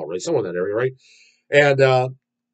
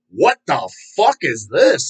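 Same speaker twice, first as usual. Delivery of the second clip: slow, stretched-out incredulous reaction; drawn-out mock bewilderment; retold disbelief; slower than usual. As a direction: re-enact baffled disbelief, word by word. Re-enacting his disbelieving first reaction.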